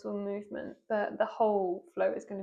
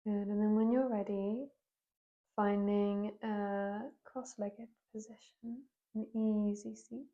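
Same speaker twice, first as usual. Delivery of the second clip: unhurried yoga teacher guidance with long pauses; guided yoga meditation. Real, not acted. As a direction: guide them gently into breath and movement, leaving space between phrases. Leads a seated yoga meditation.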